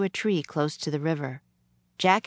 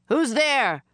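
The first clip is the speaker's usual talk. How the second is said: raised, higher captain's demand; shouted challenge; 8 semitones higher, 4 dB louder than usual. A narrator's reading. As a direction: call out firmly, pitch up. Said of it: "the captain shouted again".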